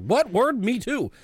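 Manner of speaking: mock excited. Irish voiced in silly retelling.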